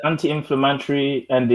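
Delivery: "anti-inflammatory" slipping into an African accent; African-accented stress and vowels on "anti-inflammatory". Real, not acted. Explaining a chili remedy to friends, African accent slipping out. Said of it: "That was my African accent".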